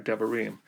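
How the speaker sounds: "devarim" with stress on the final "-rim"; accent at the end. Shown as a demonstration. Teacher shows the plural of davar, end accent. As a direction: reduce the first vowel of "devarim", accent "rim". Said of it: "accent falls at the end of the word".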